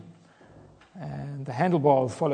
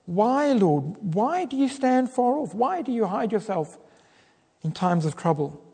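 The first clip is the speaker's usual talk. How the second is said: calling out; 5 semitones higher than usual. Acted. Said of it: "call out to him".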